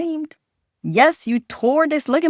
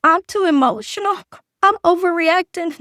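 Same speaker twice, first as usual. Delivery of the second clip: mock self-blame; 7 semitones higher, 3 dB louder than usual. Quotes women's self-blame.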